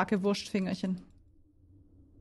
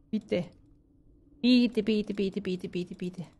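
pleading; 3 dB quieter, slower than usual. Real, not acted. Begging the game for key.

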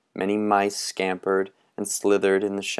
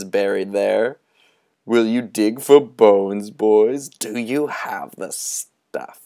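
put-on sinister old storyteller; 3 dB louder than usual. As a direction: lure the boys toward the dark. Moundshroud tempts the boys.

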